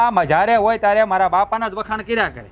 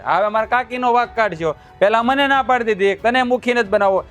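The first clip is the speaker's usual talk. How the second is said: higher, heated accusation; angry accusation; 3 semitones higher than usual. Acted. Son accusing his father over the village headman post, heated. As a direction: throw the blame at him.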